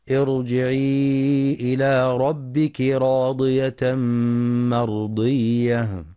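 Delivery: slow melodic tajweed chanting; Quran recitation. Shown as a demonstration. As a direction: chant the verse slowly, drawing out vowels.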